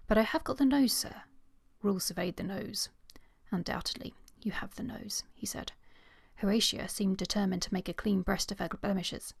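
a steady, even read-aloud voice for the novel; story narration. Acted. Podcaster reading a favourite romance scene to her co-host, story narration. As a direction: read the passage to your listeners like an audiobook.

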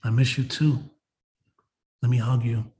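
low, tender words to a mother; subdued, affectionate imagined greeting; talking to mom. Pretend. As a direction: speak gently, as if reunited with your mother. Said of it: "And that's my mom".

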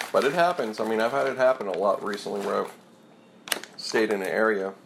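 talking while chewing nuts; chewing between words; mouth full. Real, not acted. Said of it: "Sorry, I'm eating some nuts".

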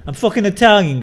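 loud, high-pitched comic protest; mock indignation. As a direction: protest loudly in playful outrage. Mock protest at accent teasing.

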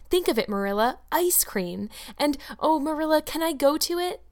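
put-on bubbling child begging to go to the picnic; eager young Anne. Anne pleads excitedly.

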